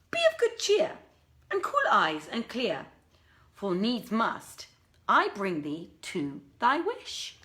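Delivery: lightly voiced old woman, starting high, slowing at the end; a hint of an old nurse cheering him up; comforting old woman. Old woman consoles the weeping prince, slow and reassuring.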